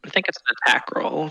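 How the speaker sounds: quick hushed aside; whisper. Real, not acted. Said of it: "whisper aside".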